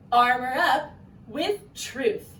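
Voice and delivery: slow chanted rallying cry; rallying call. Shown as a demonstration. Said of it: "castle call out".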